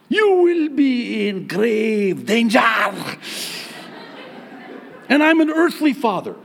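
hammed-up warning to a daughter's suitor; a playful protective dad's threat; mock threat.

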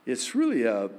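ordinary talk

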